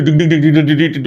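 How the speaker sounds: rapid repeated "dig-dig" patter; imitated circling noise. Mocking a player who circles the box, imitated patter. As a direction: sound out someone going round and round.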